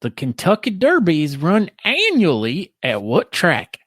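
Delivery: lightly mimicking Aaron's question read; mocking imitation. Mimicking her brother's trivia-host voice. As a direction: parrot the quiz read back to him. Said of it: "Is that what I sound like to you".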